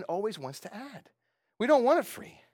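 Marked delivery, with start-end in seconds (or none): 1.6-2.4 much higher, louder whine; mock whiny man. Preacher voicing mankind refusing grace, high mock whine. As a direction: play the stubborn proud man. Mocking human pride.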